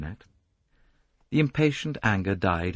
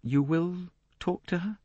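appealing; 10 semitones higher than usual. Acted. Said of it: "Lynette said appealingly".

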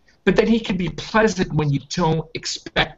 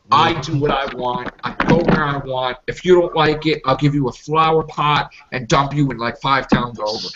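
mild Tom Baker; 3 semitones lower than usual. Retold or imitated. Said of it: "like Tom Baker".

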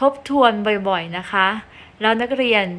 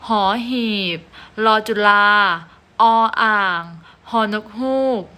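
alphabet recitation. Shown as a demonstration. Teacher reciting the consonant names to her pupils, clear and measured. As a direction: call out each letter name for the class.

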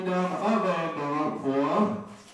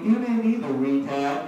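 retort; 5 dB louder than usual. Retold or imitated. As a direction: fire the insult right back. Comeback to buddy's insult.

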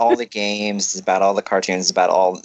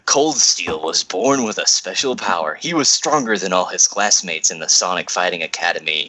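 narrator voice; 3 semitones lower than usual. Acted. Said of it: "I gotta get my best narrator voice".

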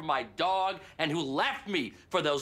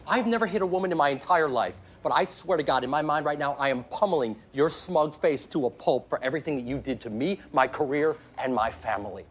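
loud, emphatic, relentless rant; furious threats poured out in public; angry tirade; 2 semitones lower, 4 dB louder than usual. Acted. Public tirade after being told to quieten.

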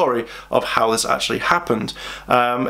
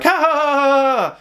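mock laughter; 13 semitones higher than usual. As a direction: laugh at him like the whole cafe. Everyone laughing at Chase.

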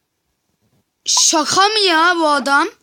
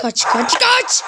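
sing-song taunt; 6 semitones higher, slower than usual. Real, not acted. Taunting fleeing player.

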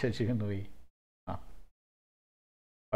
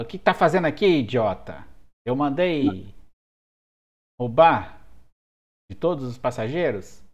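angry boss; 6 dB louder than usual. Acted. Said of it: "E ele fala".

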